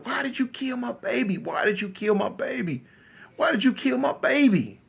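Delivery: understated retold maternal scream; muted mock wail. Capone's mama screaming at KC, subdued acted wail. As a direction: wail it without full volume. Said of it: "mama just screaming and hollering".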